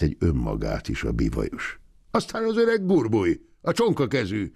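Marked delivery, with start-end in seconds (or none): 2.1-4.5 put-on old man voice. A narrator's reading. Old man lists the cripples.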